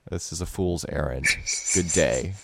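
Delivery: quick, muttered mock huff; mock dramatic exit. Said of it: "Walk off stage".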